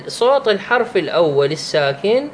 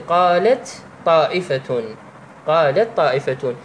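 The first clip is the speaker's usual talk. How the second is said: measured, slow recitation; slow Quran recitation. Shown as a demonstration. Teacher reciting the third example slowly. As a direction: recite "قالت طائفة" slowly as a tajweed example. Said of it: "مثال الثالث".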